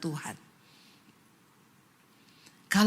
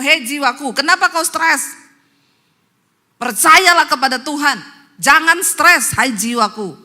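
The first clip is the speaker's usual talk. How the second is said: loud, higher exhortation to the soul; preaching to oneself; 6 semitones higher, 9 dB louder than usual. Shown as a demonstration. Preacher urging listeners to speak to their soul, loud. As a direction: command your own soul to trust. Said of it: "Bilang sama dirimu".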